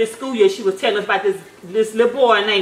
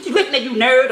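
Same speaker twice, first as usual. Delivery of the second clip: mock rude jab with a laugh; the rude way mom says not to answer; mean taunt. Shown as a demonstration. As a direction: sneer it at him the wrong way. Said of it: "Don't be like".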